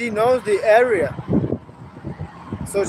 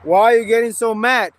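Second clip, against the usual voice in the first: heated demand; 5 dB louder than usual. Real, not acted. Heated argument on live.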